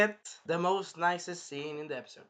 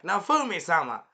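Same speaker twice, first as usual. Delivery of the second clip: higher, louder swooning cry of a name; flustered blushing girl; 4 semitones higher, 8 dB louder than usual. Retold or imitated. Blushing Raftalia calling to her hero, flustered imitation. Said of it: "blushing, and she's like".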